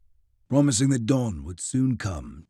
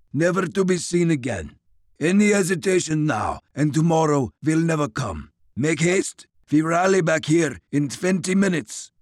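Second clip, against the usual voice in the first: put-on stern, clipped orders with Russian accent; commanding Russian officer; 5 semitones higher, 3 dB louder than usual. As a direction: lay down orders, no debate. Grigori commands.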